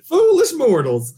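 booming Haunted Mansion host voice; spooky ride narrator. Acted. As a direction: intone it like a ghost host. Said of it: "let's hear it".

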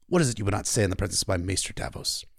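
a hint of a stern king, jaw clenched; lightly voiced grim king; Stannis voice. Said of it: "I always try to clench my jaw when I do the Stannis lines".

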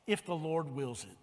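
quiet, low and falling; a quiet, humble if the Lord wills it; softly stated. Shown as a demonstration. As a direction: say it gently, like a prayer. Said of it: "we need to go to the Lord with".

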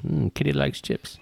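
high, soft pet-talk voice. Acted. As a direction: coo at the cat. Talking to the cat.

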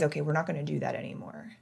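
soft whispered self-correction; gently scolding herself in a whisper; self-talk whisper. Retold or imitated. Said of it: "I started to realize".

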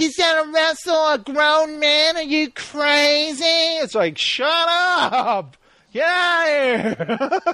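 high, slow scolding yell; mock angry mom. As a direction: scold like an outraged mother. Mock mom yelling at wrestling.

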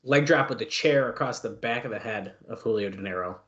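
play-by-play call, rising to a shout; wrestling commentator. Acted. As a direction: build up and yell the name. Calling a wrestling move live.

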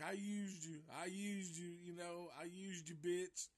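high, strange repeated taunt; imitating crazed Lefty. Lefty answers Stretch with a high crazed repeated taunt. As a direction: chant it like a man gone mad. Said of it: "he's like".

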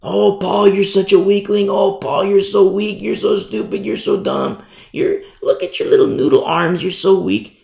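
acted scornful teasing; mocking. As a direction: jeer like a bully picking on a weakling. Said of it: "people who say such things that Paul is weak".

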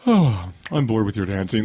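drawn-out, slow bored sigh; mock boredom. Child star watching grown men dance, imitated boredom. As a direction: imitate a child who is totally unimpressed. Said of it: "just kinda give the whole".

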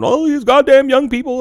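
put-on high, whiny old lady; mock a whiny old woman. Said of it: "she's somewhere sobbing".

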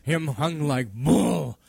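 slow, mock Asian accent; hammed-up Asian accent, drawn out; terrible Asian accent. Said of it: "I do a terrible Asian accent".

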